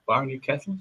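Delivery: hushed retry of a secret name, questioning; soft, confiding question; imitated conspiratorial tone, rising at the end. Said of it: "so he tried again".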